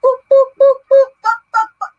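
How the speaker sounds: high, loud mock Jamaican ad-libs; fake Jamaican accent. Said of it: "trying to be fake Jamaican".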